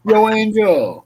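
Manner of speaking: slow gruff Rocky toy voice; gruff tinny action figure. Retold or imitated. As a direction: say it like a talking Rocky doll. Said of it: "did your Rocky Action figure say".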